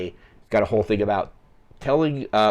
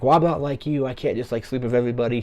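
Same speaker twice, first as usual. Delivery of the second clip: higher-pitched, lightly mocking put-down; retold slut-shaming; 4 semitones higher than usual. Corey slut-shaming another character, mildly mocking imitation. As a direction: imitate a judgmental jab at a friend. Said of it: "slut-shaming Renee Zellweger's character".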